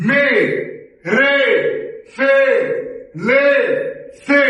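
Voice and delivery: "মে, রে, ফে, লে, সে" one by one, no glide; wrong e ending. Shown as a demonstration. Teacher warns what happens without the ei, wrong e ending. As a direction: end each of "মে, রে, ফে, লে, সে" on a plain e. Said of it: "এ উচ্চারণ করেন".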